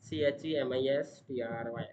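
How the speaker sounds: each letter of "टी आर आई जी एन ओ" said separately and clearly; spelled out letter by letter. Shown as a demonstration. Student spelling the subject name for viewers, letter by letter. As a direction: spell "टी आर आई जी एन ओ" one letter at a time. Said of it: "spells chemistry letter by letter".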